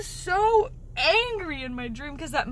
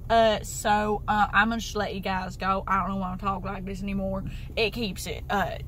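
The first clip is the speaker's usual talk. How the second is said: Southern accent; 4 semitones lower than usual. Real, not acted. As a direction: let the words roll out real Southern. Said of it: "something real southern".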